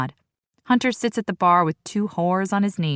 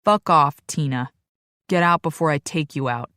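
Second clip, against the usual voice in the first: demanding; 3 dB louder than usual. Acted. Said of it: "he demands".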